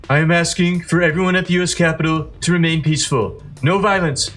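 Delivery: Donald Trump impression. Commentator doing a modest Trump voice for viewers. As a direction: read it like a mild Trump impression. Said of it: "gonna try to do my best Trump voice here".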